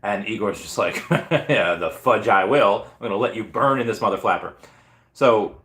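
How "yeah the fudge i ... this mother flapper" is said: mock-villain glee after a chuckle; chuckle, then draw out the playful refusal. Igor refusing to stop the countdown, mock-villain glee.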